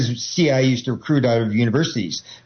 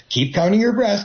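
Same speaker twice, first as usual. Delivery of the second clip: urging, higher and pushing; coaxing hypnotist; 8 semitones higher than usual. Retold or imitated. Hypnotist coaxing the subject to keep counting, urging. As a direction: push them to keep going, pitched up. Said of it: "they hit this, this say".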